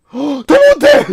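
high loud protest; outraged shout. Real, not acted. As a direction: yell in disbelief. Outraged at game. (억울해서 높이 외침)

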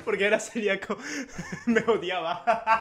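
words broken by giggles; real chuckling delivery; lingering laughter. Real, not acted. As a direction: retell it while still laughing. Still laughing at celiac joke.

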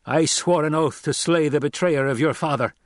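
high, loud accusation; impassioned avenger. Acted. Captor justifying himself to the son, impassioned. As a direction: declare a sworn vengeance. Narrator voices Gurney accusing.

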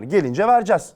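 ordinary delivery

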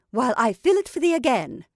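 lightly voiced witch. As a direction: croon it as the old witch. Witch speaking.

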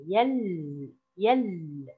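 "يل" as one syllable, holding the final l; closed syllable. Shown as a demonstration. Teacher isolates the silent-letter syllable, held closing consonant. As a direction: linger on the l closing "يل". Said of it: "على المقطع الساكن".

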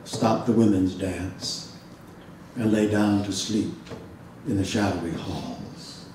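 measured, unhurried bardic recital; epic poem reading. Acted. Professor reading the Odyssey aloud to his audience, measured recital. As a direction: tell it like an ancient bard at the fire.

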